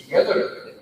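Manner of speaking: "together" with the middle syllable GE emphasised; stress on second syllable. Shown as a demonstration. Coach repeating the example word, emphasis on GE in "together". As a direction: lean on GE in "together". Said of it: "stressed or pronounced with emphasis".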